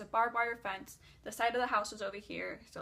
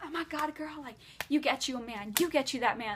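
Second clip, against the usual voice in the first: higher, excited mock gossip; freaking out, gossiping; 3 semitones higher than usual. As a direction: gush like a gossiping friend. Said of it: "freaking out, gossiping".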